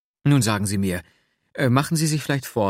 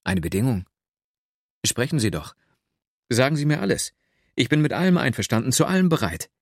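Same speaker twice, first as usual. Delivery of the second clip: delighted; 4 semitones higher than usual. A narrator's reading. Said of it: "rief ich entzückt aus".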